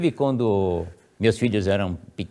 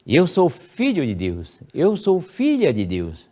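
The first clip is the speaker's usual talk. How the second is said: slow, raised self-affirmation; first-person prayer; 5 semitones higher, slower than usual. Shown as a demonstration. Child affirming at bedside, slow solemn. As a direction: claim it for yourself. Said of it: "você vai ler assim".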